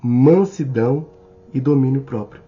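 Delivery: slow, deliberate Bible reading with pauses; scripture reading. Acted. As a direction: read each item out separately, stretched and weighty. Lê versículo bíblico pausadamente. (leitura bíblica lenta e pausada)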